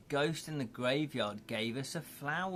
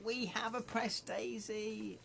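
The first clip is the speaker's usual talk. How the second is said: mock read-out; 9 semitones higher than usual. Shown as a demonstration. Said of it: "I read that out".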